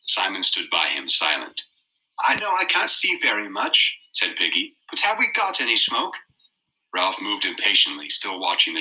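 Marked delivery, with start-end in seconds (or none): 2.2-6.2 put-on high unsure boy. A narrator's reading. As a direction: ask it, unsure. Piggy voiced.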